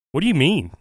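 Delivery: reliving the moment he heard the news, half-crying out in disbelief; stunned disbelief. Retold or imitated. Retells hearing friends found dead.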